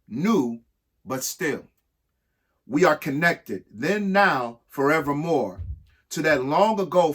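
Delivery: measured, sing-song reading of an alphabet rhyme; rhyming read-aloud. Acted. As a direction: read it like a picture book for kids. Reads an ABC poem aloud.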